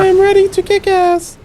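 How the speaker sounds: put-on loud, grizzled old soldier; grizzled veteran voice. Player demos his hero's voice, grizzled veteran. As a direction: growl it like a battle-worn vet. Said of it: "with this grizzled voice".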